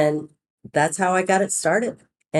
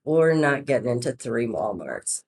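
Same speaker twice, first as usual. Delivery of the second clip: lower, downbeat retold letdown; mock bad news; 4 semitones lower than usual. Saleswoman calling back to tease her boss, mock-downcast. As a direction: break the bad news, feigning disappointment. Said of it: "I've got bad news".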